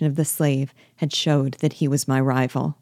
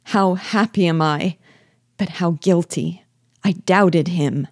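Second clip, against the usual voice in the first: mild impassioned exclamation; understated emotional outburst; crying out; 2 semitones higher than usual. A narrator's reading. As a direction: exclaim with a touch of joy and guilt. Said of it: "I cried".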